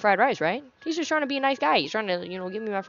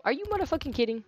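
quick incredulous mutter; fast annoyed under-breath question; fast exasperated aside; 4 semitones higher, 5 dB quieter, faster than usual. Real, not acted. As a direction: rattle it off in disbelief. Exasperated reaction to game character.

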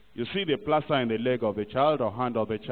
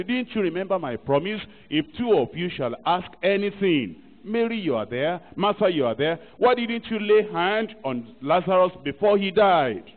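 reproachful rebuke; 4 semitones higher, 3 dB louder than usual. Acted. Imagined rebuke of Mary and Martha.

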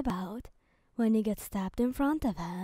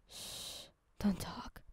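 gentle shush, then softer words; soft hushing; 3 semitones lower, 9 dB quieter, slower than usual. A narrator's reading. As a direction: hush them quietly. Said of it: "he says softly".

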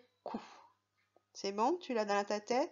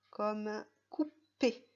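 slow model word; 3 dB louder, slower than usual. Shown as a demonstration.

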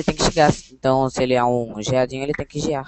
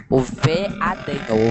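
veadinho stretched slowly, syllable by syllable; drawn out; much slower than usual. Shown as a demonstration.

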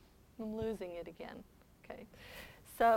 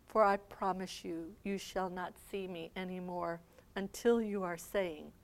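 grieving Jesus. Acted. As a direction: mourn over the city, gently. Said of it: "starts to cry".

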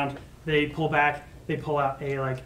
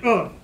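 recoiling grunt; 5 semitones higher, 8 dB louder than usual. Acted. Acting out a startled recoil.

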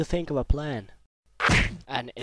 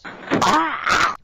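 startled squeak; 6 dB louder than usual. Acted. Sudden squeak.

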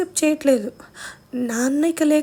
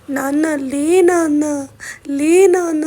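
slow wailing plea, growing louder; retold crying plea; 6 dB louder, slower than usual. Sister crying over fallen father, slow loud wailing. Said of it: "అని ఏడుస్తుంది మా అక్క".

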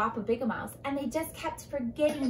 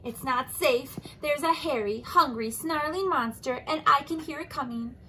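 urgent warning; 3 semitones higher, 4 dB louder than usual. Acted. Leopard warns Anteater.

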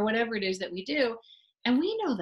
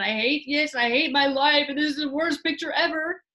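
put-on angry child; 6 semitones higher, 6 dB louder than usual. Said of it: "your child is really angry".

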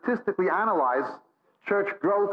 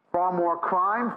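slow, weighted "far more crime"; slow emphasis; 3 semitones higher, much slower than usual. Acted. Preacher listing society's ills to the congregation, slow and weighted. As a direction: drag it out for gravity.

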